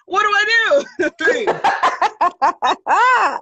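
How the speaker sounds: high, breathless whisper through a laugh. Real, not acted. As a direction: giggle the question out in a whisper. Laughing helplessly about going back.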